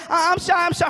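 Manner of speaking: high-pitched mock-bashful child; shy little girl. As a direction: imitate a preschooler protesting shyly. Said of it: "She's shy to the music".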